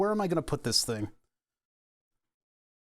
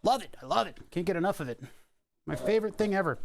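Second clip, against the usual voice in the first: deadpan mock delight; sarcastic; 5 semitones higher, faster than usual. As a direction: pile on the sarcasm. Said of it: "sarcastic about drill walking".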